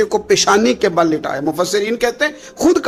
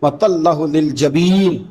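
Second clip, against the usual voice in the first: slow, chanted Arabic recitation; Quran recitation; much slower than usual. Acted. Preacher reciting the verse to the crowd, chanted slowly. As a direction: draw out each word like tilawat.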